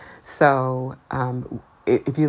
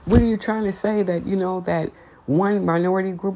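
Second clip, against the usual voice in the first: mock offended critic; 5 semitones higher than usual. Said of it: "it's like".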